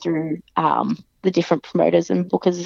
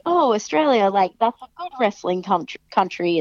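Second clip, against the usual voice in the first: mock impressed. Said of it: "people are like".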